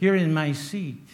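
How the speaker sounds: usual speaking voice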